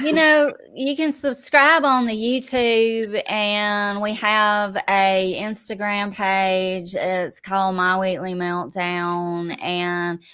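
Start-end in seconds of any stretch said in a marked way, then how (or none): 0.0-6.9 Southern accent. Shown as a demonstration. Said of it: "thick Southern accent".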